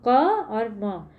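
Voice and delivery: "क और म" said as two separate sounds; sound-by-sound breakdown. Shown as a demonstration. Teacher showing students the sounds, "क और म" pronounced separately. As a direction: split it into "क", then "और म". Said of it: "जब हम इसकी प्रोनाउंसिएशन करेंगे".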